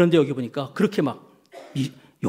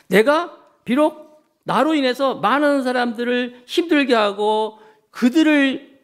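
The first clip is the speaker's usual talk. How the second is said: retold confession; 7 semitones higher than usual. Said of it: "그렇게 말씀하고 있더라고요".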